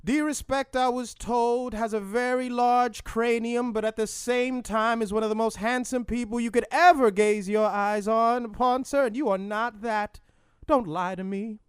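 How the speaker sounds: high, sustained preacher chant; hammed-up singsong sermon cadence, held notes; Martin Luther King. King disputing the host's identity, high chanting oratory. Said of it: "talking in song".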